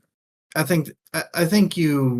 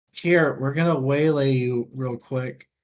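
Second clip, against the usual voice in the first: mock trial voice; 3 semitones higher, 5 dB louder than usual. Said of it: "the last trial is just like".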